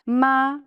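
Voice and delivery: Ma held flat and high like a sung note; first tone ma. Shown as a demonstration. Teacher demonstrates the first Mandarin tone. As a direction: hold Ma level and high. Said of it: "flat and high".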